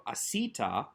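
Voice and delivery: "asita", weight on the middle "si"; penultimate stress. Shown as a demonstration. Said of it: "accent on that second to last syllable".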